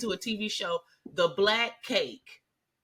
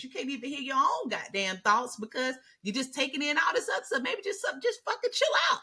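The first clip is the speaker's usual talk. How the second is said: exasperated; 6 semitones higher than usual. Real, not acted. Exasperated rant, rising high.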